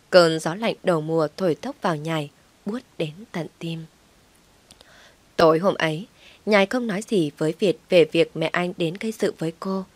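ordinary delivery, nothing marked

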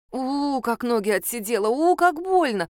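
whimpering howl. Acted. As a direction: whine about your numb legs. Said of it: "подвывала я".

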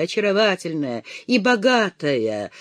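plain reading voice

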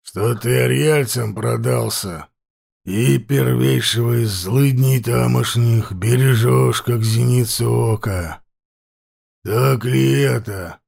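slow, rasping chieftain voice; hoarse voice. Acted. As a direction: drag the words out hoarsely. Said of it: "продолжал хриплый голос".

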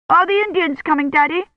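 put-on high little-girl voice, worried; childish question. A narrator's reading. Delirious old woman asks her daddy about Indians, high childish worry. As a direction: ask like a scared small child.

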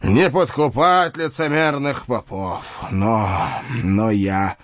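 put-on bitter, raging old knight; dying knight. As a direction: rail against the monks, dying.

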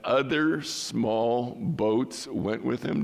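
OTHER stressed and drawn out, then a slow phrase; slow, pointed stress on "other"; emphasis on other. Shown as a demonstration. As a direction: pause and lean on "other small boats". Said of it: "I kind of paused and re-, you know, emphasized the word".

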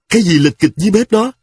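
shouting. A narrator's reading. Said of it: "Tôi quát to".

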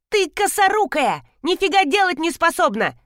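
put-on furious coworker screeching at the clumsy girl; shrieking. A narrator's reading. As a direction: screech the insult at her. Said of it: "взвизгнула полная тётка".

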